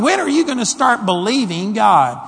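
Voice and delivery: high, loud impassioned scolding; Jesus pressing Peter, fervent and loud; exasperated rebuke. Shown as a demonstration. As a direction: plead with him to finally believe. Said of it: "It was probably more like".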